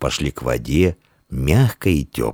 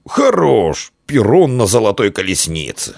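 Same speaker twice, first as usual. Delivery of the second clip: higher-pitched, playful compliment; joking praise; 6 semitones higher than usual. A narrator's reading. Boy teasing his friend about his looks, joking praise. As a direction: praise him in jest, voice lifted. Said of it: "шутливо похвалил Диан".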